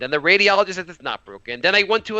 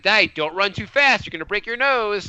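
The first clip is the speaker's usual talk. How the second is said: lightly imitated son; 5 semitones higher than usual. Son warning dad from his bike, lightly imitated. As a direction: lightly mimic a child cautioning a parent.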